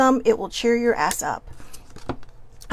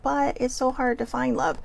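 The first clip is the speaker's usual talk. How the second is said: mocking whine; 2 semitones higher, 3 dB quieter than usual. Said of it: "that was more me mocking it".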